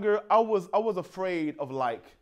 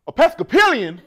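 mock puzzlement; 5 semitones higher, 6 dB louder than usual. Table repeats word baffled.

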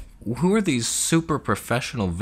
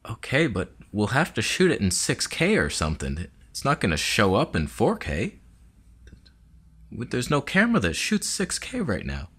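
crew member; 3 semitones higher than usual. Pretend.

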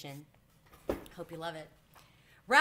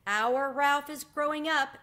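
high, loud, drawn-out aunt's voice; proud exclamation; 9 semitones higher, 8 dB louder, slower than usual. A narrator's reading. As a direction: announce it slowly, high and loud, marvelling. Aunt marvels at nephew growing up.

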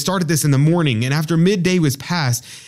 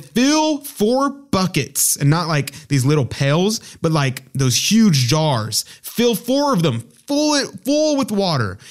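much higher, slow, commanding; booming prophet command; 4 semitones higher than usual. Retold or imitated. Elijah orders the people to fill buckets, commanding. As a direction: give the order like a prophet on the mountain.

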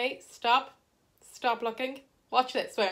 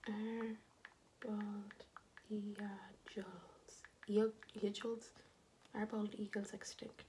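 hushed word-by-word whispered question; slow whisper; 3 semitones lower, 17 dB quieter, slower than usual. Pretend. Vlogger puzzles over bald eagles, slow whisper. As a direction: whisper it, pausing after each word.

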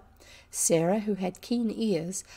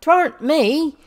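high, very loud tearful denial; acted weeping protest; 8 semitones higher, 12 dB louder than usual. A narrator's reading. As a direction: wail as a wrongly accused servant girl. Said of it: "wept Becky".

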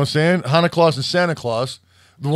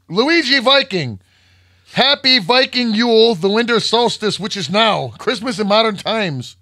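Viking voice; 5 semitones higher than usual. Pretend. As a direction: announce it like a Viking chieftain. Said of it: "that sounded like some Viking shit".

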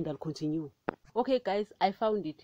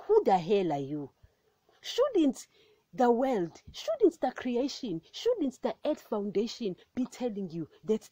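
indignant rebuke. Real, not acted. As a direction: shame the unbeliever. Rebuking those who deny God.

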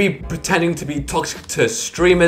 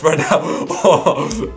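laughing; 2 semitones higher, slower than usual. Real, not acted. YouTuber trolling a streamer, cracking up. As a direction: insult read out through laughter. Cracks up while typing the insult.

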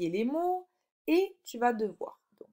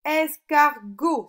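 high, loud "Escargot" in three beats; syllable by syllable; 5 semitones higher, 9 dB louder, much slower than usual. Shown as a demonstration. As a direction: separate each syllable of "Escargot", slowly. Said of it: "sur la troisième". (« Escargot » découpé en trois syllabes appuyées)

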